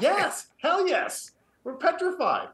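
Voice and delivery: high, slow, drawn-out mock terror; big players squeaking in mock fear of the coach; mock-terrified. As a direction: ham up being petrified. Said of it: "And they both looked at her and said".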